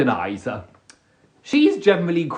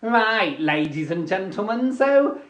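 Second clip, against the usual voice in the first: organizer Sandra; 5 semitones higher than usual. Retold or imitated. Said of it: "she goes".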